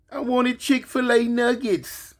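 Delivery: put-on high, slow pleading kid voice; whiny child. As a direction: whine it like a spoiled boy. Grandson voiced.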